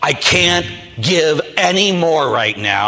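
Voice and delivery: slow, drawn-out mock wail of exhaustion; at breaking point. Priest retelling his Christmas meltdown, worn out and overwhelmed. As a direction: act out being close to losing it. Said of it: "just lose it and becoming a bit, little baby crying".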